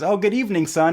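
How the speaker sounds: high, lightly hammed-up hello; cheery greeting. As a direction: greet the sun as a joke character. Evening greeting in the joke.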